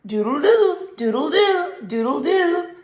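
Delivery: high, loud happy doodle-doo; joyful crowing. Acted. Toodles thrilled with her new sound, loud happy crowing. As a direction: crow it out with delight. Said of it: "she cried, spinning around".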